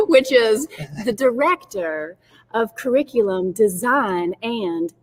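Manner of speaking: a hint of Southern accent, stretching out the end. Guest giving her real title in a playful mild Southern accent. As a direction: finish the title in a light Southern accent, slowing at the last words. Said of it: "I could do it with a Southern accent".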